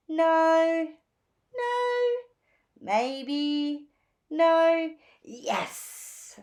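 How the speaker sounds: mild back-and-forth dithering; lightly voiced Phoebe dithering. A narrator's reading. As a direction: weigh each option aloud.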